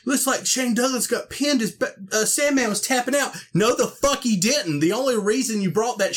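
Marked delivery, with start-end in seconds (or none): 0.0-3.4 mocking announcer. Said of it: "And they're like".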